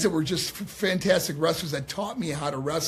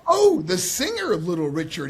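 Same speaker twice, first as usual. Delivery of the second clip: retold realisation; 2 semitones higher, 5 dB louder than usual.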